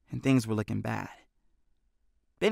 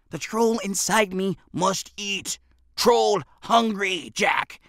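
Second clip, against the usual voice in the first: troll; 7 semitones higher, slower than usual. A narrator's reading. Benny plays hungry troll.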